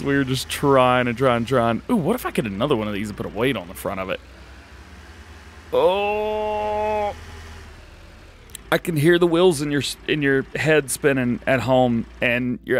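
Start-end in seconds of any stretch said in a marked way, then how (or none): 5.7-7.1 long, high held "ohhh"; drawn-out oh. Real, not acted. Gamer hits on a fix for the weight problem, drawn-out oh. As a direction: stretch out a high-pitched oh. Sudden idea about another weight.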